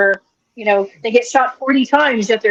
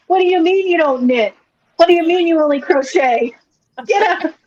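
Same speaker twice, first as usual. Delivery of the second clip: higher-pitched, lightly voiced mock outrage; mock outraged kidnapper; 6 semitones higher than usual. Co-host playing kidnapper scolding a crocheter, mock outrage, higher. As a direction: play a hammed-up indignant knitting kidnapper.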